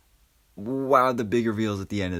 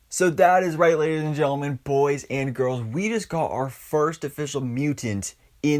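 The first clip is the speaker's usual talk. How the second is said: excited announcement; 4 semitones higher than usual. Real, not acted. Excited announcement of mutant reveal.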